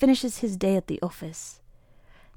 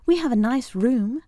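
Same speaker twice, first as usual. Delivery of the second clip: cooing; 4 semitones higher than usual. Acted. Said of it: "coos the manager".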